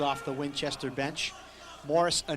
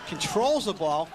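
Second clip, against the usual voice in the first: rising excitement on the call; excited play call. Real, not acted.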